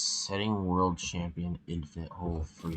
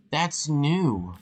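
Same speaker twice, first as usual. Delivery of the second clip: surprised; 8 semitones higher, 5 dB louder than usual. Real, not acted. Surprised discovery.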